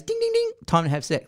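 alarm voice. Retold or imitated. Mimicking an app alarm.

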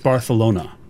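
Barcelona with a "th" for the c; Barcelona as Barthelona; Spanish pronunciation. Shown as a demonstration. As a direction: lisp the c in Barcelona, bar-thuh-LOH-na. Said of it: "That's how it's pronounced".

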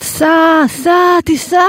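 high, urgent retold command to drive; urging driver. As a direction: push the taxi driver to go, frantic. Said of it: "נהג מונית". (פוקדת על נהג המונית לנסוע, בבהלה ובקול גבוה)

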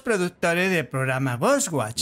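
a hint of a dignified lady; lightly voiced formal woman; man doing a woman's voice. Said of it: "elige otra mujer".

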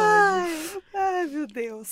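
slow, wheezing through tears of laughter; crying with laughter. Real, not acted. Friend out of breath from laughing at the pigeon joke, tearful laughter. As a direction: laugh until you cry.

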